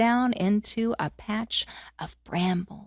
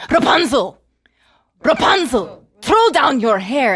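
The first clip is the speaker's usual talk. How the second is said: calling up; 3 semitones higher, 9 dB louder than usual. Acted. Sorceress calls.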